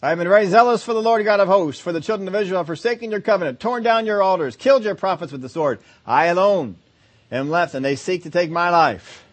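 self-righteous recital delivered quickly; rehearsed speech. Retold or imitated. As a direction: rattle it off like a memorised line. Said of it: "they know what to get into".

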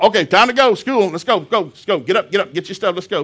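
dad hurrying the family off to school. Retold or imitated. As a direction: hustle the kids out to school. Rushing kids off to school.

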